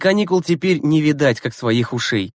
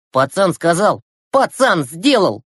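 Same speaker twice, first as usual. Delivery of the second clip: satisfied; 4 semitones higher, 3 dB louder, slower than usual. A narrator's reading. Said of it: "удовлетворённо произнёс Глеб".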